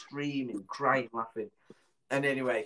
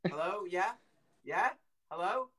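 higher, questioning rises; puzzled passer-by; 7 semitones higher than usual. Retold or imitated. Bloke answering an unseen child, imitated puzzled questioning. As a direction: answer uncertainly, each word a question. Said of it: "And he went".

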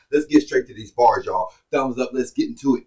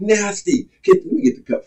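hyped exclaim; 7 semitones higher than usual. Real, not acted. Reactor wowed by a bar, high and hyped. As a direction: react like the line hurt.

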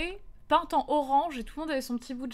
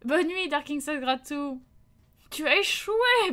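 game-over announcer; 2 semitones higher, 4 dB louder, slower than usual. Acted.

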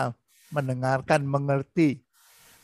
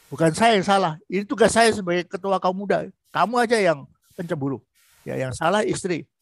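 defensive husband. Shown as a demonstration. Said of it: "Dan dia berusaha mempertahankan diri".

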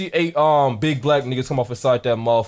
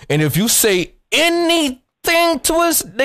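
mock threat; 12 semitones higher, 3 dB louder than usual. Threatening to storm the store.

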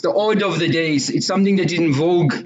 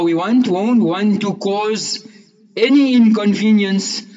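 preaching emphasis; 5 semitones higher, 4 dB louder than usual. Real, not acted. Preacher hammering home the point.

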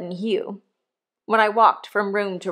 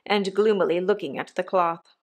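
plain reading voice

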